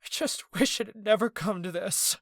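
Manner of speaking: high and loud through tears; sobbing. A narrator's reading. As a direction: keep crying while you forgive him. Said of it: "Ez continued to sob".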